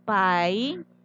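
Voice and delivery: paisaje muy lento: pai... sa... je; separado en sílabas. Shown as a demonstration. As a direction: alargar cada sílaba de paisaje con pausas largas. (paisaje dividido en tres sílabas sueltas)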